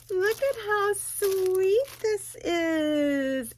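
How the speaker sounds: high, slow, tearful awe; almost crying over the gift. Real, not acted.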